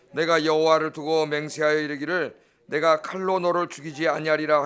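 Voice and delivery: measured, level-toned Bible reading; scripture reading. Real, not acted. Preacher reads the passage to the congregation, solemn reading. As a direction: read the verses out in an even chant-like tone.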